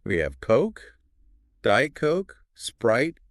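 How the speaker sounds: high, loud, sing-song drinks list; cheerful flight attendant. Shown as a demonstration. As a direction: offer the drinks brightly, lilting up. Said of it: "Flight attendant voice".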